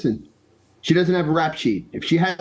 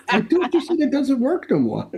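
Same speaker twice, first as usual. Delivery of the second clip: teasing words through a laugh, higher; 6 semitones higher than usual. Real, not acted. Friend teasing an old man about his love life, laughing. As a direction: giggle your way through the tease.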